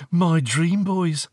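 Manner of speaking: giggle, then swoon it slowly, high and loud; high, drawn-out girlish delight; laughing dreamy girl. A narrator's reading. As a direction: gush like a teenage fan. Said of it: "Marianne laughed".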